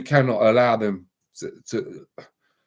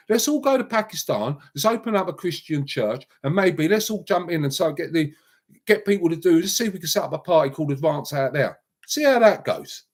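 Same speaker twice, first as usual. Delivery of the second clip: mocking sarcasm; 6 semitones higher than usual. Real, not acted. Mocking proposal to go to Pakistan.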